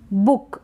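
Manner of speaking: बुक with a short, clipped u vowel; short double-o. Shown as a demonstration. Teacher reads out the word for learners, short vowel. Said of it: "double O को हम pronounce कर रहे हैं short".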